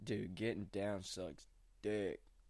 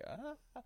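imitated scream; 7 dB quieter than usual. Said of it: "like, screaming and".

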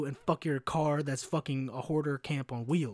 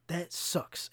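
looping groan of dismay; 4 semitones higher, much slower than usual. Retold or imitated. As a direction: wail it over and over, then deflate. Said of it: "I'm not even doing it justice. It was louder".

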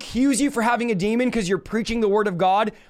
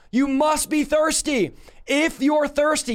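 higher, slow calling out; loud cry; 6 semitones higher, slower than usual. Acted. Preacher voicing Jesus calling the thirsty people, loud slow cry. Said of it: "Jesus is crying out in a loud voice".

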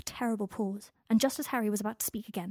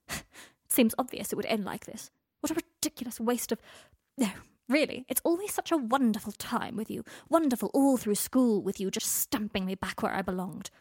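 scornful; 4 dB louder than usual. Acted.

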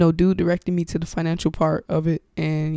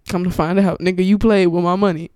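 loud, indignant accusation; indignant callout; 6 dB louder than usual. Retold or imitated. Podcaster to the scammer who took the money, indignant. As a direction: call him out, louder and fed up.

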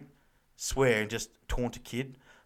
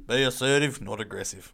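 reciting motto; 3 semitones lower than usual. Retold or imitated. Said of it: "like our old job motto".

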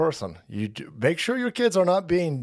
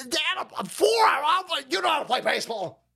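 put-on high, upset four-year-old voice; whiny kid pleading; 10 semitones higher, faster than usual.

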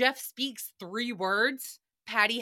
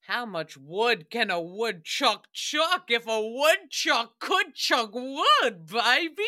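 slow, sly bedroom tease; lightly mocking Jeff teasing his lover; teasing come-on; slower than usual. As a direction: drawl the tongue twister like a pickup line. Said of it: "that's what Jeff will be asking Chuck".

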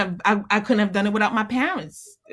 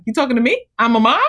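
lightly raised, playful disbelief; mock disbelief; 4 semitones higher, 4 dB louder, much faster than usual. Hearing Happy Mother's Day, mock surprise. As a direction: joke that it can't be you. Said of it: "I'm like".

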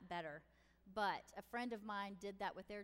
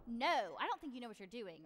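mock kid with attitude, loud "no"; 6 dB louder than usual. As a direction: imitate a child snapping back at mom. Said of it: "They just get attitude with you".

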